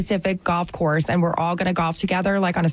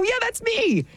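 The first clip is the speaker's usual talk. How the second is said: retold delight. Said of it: "I go".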